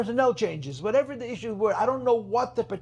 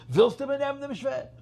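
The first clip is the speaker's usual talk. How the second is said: quoting the Rebbe; 7 semitones higher than usual. Retold or imitated. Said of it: "you hear the Rebbe say".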